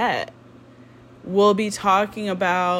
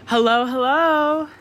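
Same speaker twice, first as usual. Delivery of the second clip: breathless, slower greeting; out of breath; 5 semitones higher, 4 dB louder than usual. Real, not acted. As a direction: greet while catching breath. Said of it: "I'm out of breath".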